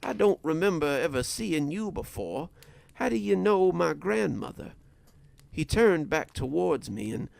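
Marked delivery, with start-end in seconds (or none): 0.0-4.7 put-on uneasy boy pushing out a challenge; raised voice, words forced at the stranger. A narrator's reading. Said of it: "had to force the words past my teeth".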